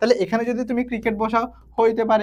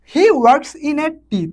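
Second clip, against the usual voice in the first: very slow, each English word spaced out; slow dictation; 4 semitones higher, 4 dB louder, much slower than usual. Shown as a demonstration. Teacher dictating an example sentence to students, very slow. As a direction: read it out word by word for the class. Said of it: "teacher reads example sentence".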